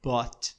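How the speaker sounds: "Bought" said slowly and clearly as one open syllable, "bót", with the final t heard; clear pronunciation. Shown as a demonstration. Teacher shows students how to say the past form "Bought" carefully. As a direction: model the word "Bought" for students, sound by sound. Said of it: "Você viu a pronúncia?".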